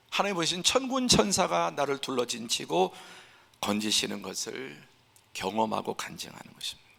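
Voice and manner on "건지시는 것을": normal talking voice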